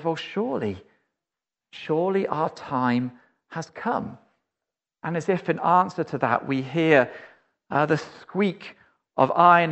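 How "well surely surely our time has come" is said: hushed inner thought. Acted. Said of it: "we think to ourselves".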